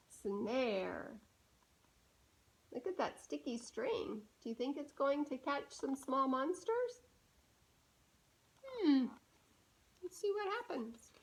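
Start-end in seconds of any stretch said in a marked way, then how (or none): 2.7-11.1 put-on hushed, gentle aside to the listening child; soft aside to child. Shown as a demonstration. Reader pausing the book to ask a child softly. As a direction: lean in and ask the little one quietly.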